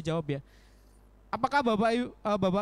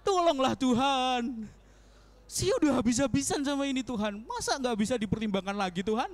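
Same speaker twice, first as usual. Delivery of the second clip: stubborn pleading; 5 semitones higher than usual. Retold or imitated. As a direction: beg God to change His mind. Acting stubborn begging prayer.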